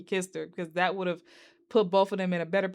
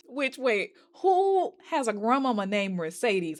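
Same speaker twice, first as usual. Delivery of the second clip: sudden high cry of disbelief; surprised outburst; 4 semitones higher than usual. Real, not acted. Vlogger reacting to the grandma's name, surprised cry. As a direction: blurt it out, caught off guard.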